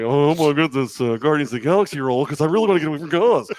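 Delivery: lively mock-excited impression; slightly hammed-up eager impression; impression of actor. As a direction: imitate him gushing over a role. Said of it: "it's a very good impression of him".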